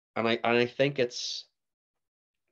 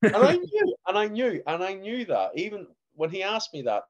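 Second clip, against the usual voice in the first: laughing; 13 semitones higher, 7 dB louder than usual. Real, not acted. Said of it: "laughing through the story".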